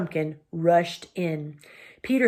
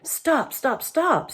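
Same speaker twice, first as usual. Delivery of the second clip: urgent call; 8 semitones higher, much slower than usual. A narrator's reading. Cornelius halts quarrel.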